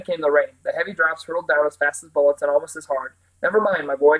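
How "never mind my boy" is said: mild mock shout over the storm; shouted over the noise. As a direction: call out to be heard through rain. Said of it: "shouted the Scarecrow over the noise".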